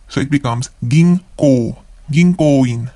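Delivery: ginko said with ng before the k, ging-ko; nasal ng in ginko; n turned to ng before k; ng sound. Shown as a demonstration. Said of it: "the N syllable or N becomes N G sound".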